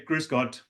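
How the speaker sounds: "Grüß Gott" with the tone moving down; falling greeting. Shown as a demonstration. Viennese greeting said with falling tone. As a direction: let "Grüß Gott" drop. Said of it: "we move down with our tone".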